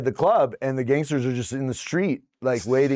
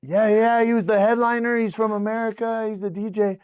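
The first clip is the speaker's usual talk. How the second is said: eager vouching; 10 semitones higher than usual. Retold or imitated. Morpe vouching for the DJ to gangsters, high eager voice. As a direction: sell it to the gangsters.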